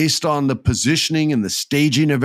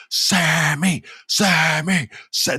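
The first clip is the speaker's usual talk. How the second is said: higher, pleading chant of a name; mock crowd scream; 6 semitones higher, much slower than usual. San Antonio crowd begging Sammy, mock pleading chant. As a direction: imitate a crowd calling out to him. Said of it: "they're screaming".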